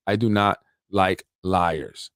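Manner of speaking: "I do not like liars", slowly, weight on each word; emphatic restatement. Real, not acted. Emphatic restatement of his dislike.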